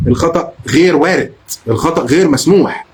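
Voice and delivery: غير hit hard in both halves; firm warning stressing غير. Real, not acted. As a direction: punch غير in الخطا غير وارد. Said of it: "emphatic rule".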